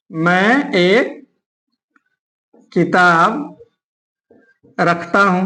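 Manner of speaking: low, drawn-out words with long gaps; slow dictation. Shown as a demonstration. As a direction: dictate it piece by piece. Writing out an example sentence.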